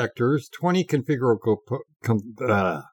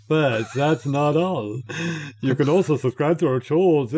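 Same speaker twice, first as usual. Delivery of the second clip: mock French accent. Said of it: "You need to read this in that new accent".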